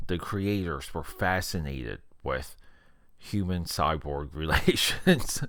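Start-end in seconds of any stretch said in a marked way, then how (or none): 3.2-5.4 breaking into a laugh mid-phrase; can't keep a straight face. Real, not acted. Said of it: "I couldn't say that with a straight face".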